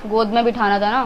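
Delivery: low, taunting dig; sarcastic jibe. Real, not acted. Woman taunting partner about the other woman, sarcastic. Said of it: "हर चीज में tone ही मारोगी".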